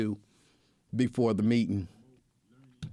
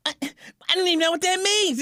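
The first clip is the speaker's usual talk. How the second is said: higher, lightly voiced baffled man; mock confusion, pitched up; baffled old man; 4 dB louder than usual. Imitating Lincoln's confusion, higher mock voice.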